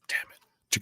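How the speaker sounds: whispered under his breath in frustration; a half-voiced damn it, to himself; muttered curse. Real, not acted. Annoyed at forgetting a name, he whispers a curse. Can't recall the actor's name.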